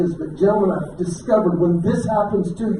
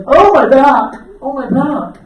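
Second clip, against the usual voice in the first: wife's groan; 7 semitones higher, 8 dB louder, slower than usual. Retold or imitated. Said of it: "and she's like".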